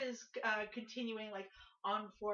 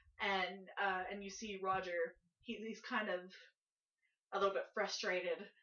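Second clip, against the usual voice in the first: normal talking voice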